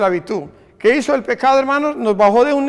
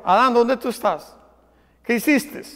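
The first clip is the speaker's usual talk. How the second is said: soft, loving call, the question dropping quieter; calling with love; 4 dB quieter than usual. Acted. God lovingly calls Adam after his sin, softly. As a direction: ask it with love, not accusation. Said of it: "le estaba llamando con amor".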